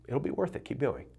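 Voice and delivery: a hint of a tender inner coach; gentle encouragement. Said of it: "I changed it to".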